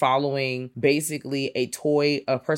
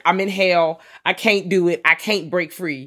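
louder, high wail of mock despair; mock anguish; 6 semitones higher, 8 dB louder than usual. Host complaining about friends cranking music, hammed-up loud wail. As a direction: howl it like you're trapped.

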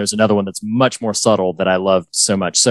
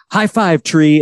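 high, bright mock-cheery "high five"; cheery Ted; 6 semitones higher, slower than usual. Host imitating Ted high-fiving a tree, cheery and high. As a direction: chirp it at the tree. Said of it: "he says, like".

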